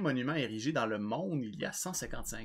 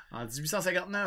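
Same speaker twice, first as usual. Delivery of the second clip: put-on higher-pitched French with an Irish accent; 6 semitones higher, faster than usual. Co-host reading the stone's date, in an Irish accent. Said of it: "un accent irlandais sur du français".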